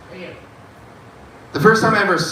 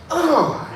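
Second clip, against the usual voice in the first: short high-pitched "ugh"; high grunt between two choices; quick, high mock grunt; acted ugh; 12 semitones higher than usual. Acts offering fingers to smell.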